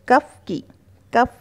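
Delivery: कफ with short "uh" vowel, Hindi accent; Hindi-accented cough. Shown as a demonstration. Teacher showing the habit, Hindi-accented कफ. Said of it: "अपना Hindi accent वहाँ पे ले आते".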